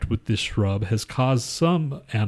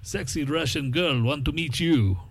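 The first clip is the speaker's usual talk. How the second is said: sultry mock Russian accent, slightly higher; 4 semitones higher than usual.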